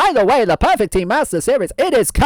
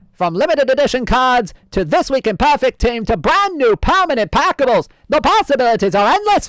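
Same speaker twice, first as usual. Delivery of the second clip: lightly voiced old-time radio host; old-fashioned announcer voice; old-timey voice. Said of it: "I'm trying too hard".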